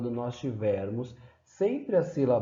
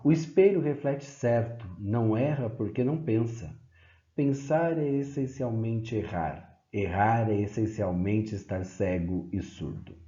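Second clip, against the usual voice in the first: calm, measured reading; poem recital. Acted. Teacher reading a Caeiro poem to the class, measured recital. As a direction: read the lines plainly and thoughtfully.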